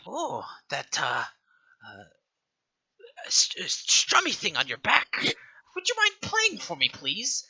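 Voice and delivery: put-on high, hesitant old woman's request; coaxing old matron. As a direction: ask sweetly for a song. Matron asks bard to play.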